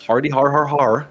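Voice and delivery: flat fake ha-ha; deadpan mock laughter; sarcastic laugh. Real, not acted. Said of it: "Very clever".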